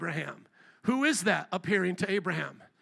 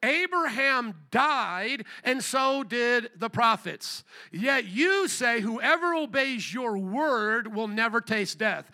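slow, emphatic scripture reading, raised; exclaimed accusation; 2 semitones higher, 3 dB louder, slower than usual. Acted. Crowd accusing Jesus of being possessed, exclaiming slowly. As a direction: read it out as an indignant exclamation, drawn out. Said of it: "They exclaimed".

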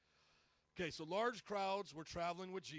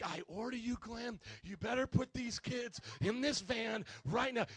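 insistent order; 4 semitones higher, 5 dB louder than usual. Retold or imitated. Retold quarrel, ordering Glenn.

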